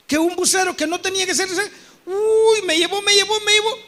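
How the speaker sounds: high, worked-up recounting; breathless reliving of the close call; agitated retelling. Retold or imitated. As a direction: relive the near-crash, climbing. Cut off in traffic.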